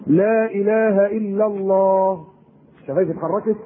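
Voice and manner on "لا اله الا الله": slow, drawn-out la ilaha illa Allah with still lips; said without moving lips. Shown as a demonstration. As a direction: say لا اله الا الله slowly, lips barely moving. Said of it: "تاني".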